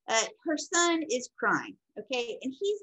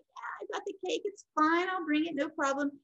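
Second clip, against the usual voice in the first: higher-pitched, imitating a carefree friend; breezy reassurance; 5 semitones higher than usual. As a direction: act out an easy, breezy promise. Friend breezily promising the cake.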